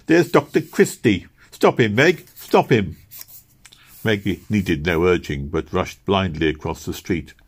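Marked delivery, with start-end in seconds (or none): 0.1-3.0 higher, louder urgent calling out. A narrator's reading. Missus Blossom urges Meg to stop the doctor, urgent call. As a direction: hurry her after him, calling out.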